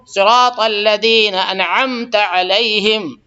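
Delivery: slow, drawn-out chanted recitation; Quran recitation. Shown as a demonstration. Teacher reciting Fatiha verse for students, slow chant. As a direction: recite each word slowly and clearly.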